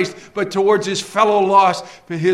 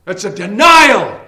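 slow, louder stern command; stern warning; 3 semitones higher, 7 dB louder, slower than usual. Acted. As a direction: warn the flock, slow and firm. Preacher warning congregation.

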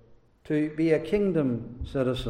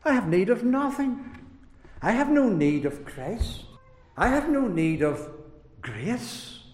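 proud sinner. Retold or imitated. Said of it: "They talk like that".

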